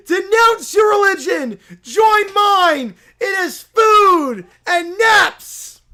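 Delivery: pushy self-proclaimed prophet bellowing; loud holy crusader voice; zealous preacher. Acted. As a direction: barge in demanding converts. Preacher demands conversion.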